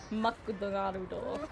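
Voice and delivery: Japanese accent, drawn out slowly; Japanese pronunciation. Shown as a demonstration. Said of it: "saying a word in Japanese".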